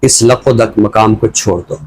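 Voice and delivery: measured, deliberate reading of a poem; poem recitation. Acted. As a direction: give each line weight and leave pauses between phrases. Poet recites his poem. (ٹھہر ٹھہر کر نظم کی سنجیدہ قرأت)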